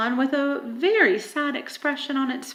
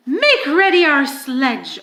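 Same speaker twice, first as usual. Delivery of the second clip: commanding order; 2 semitones higher, 7 dB louder than usual. Acted. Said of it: "ordered the witch".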